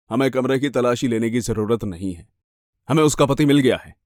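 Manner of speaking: lightly voiced male officer; composed policeman. Police officer telling the victim of a find, composed and official. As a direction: inform her evenly, officially.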